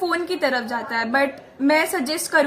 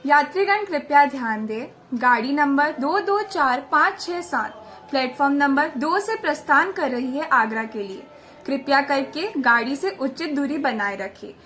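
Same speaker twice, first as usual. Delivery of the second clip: formal station announcement voice; railway announcer. Shown as a demonstration. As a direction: announce it like a platform PA. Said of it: "मैं छोटा सा act करके दिखा देती हूँ".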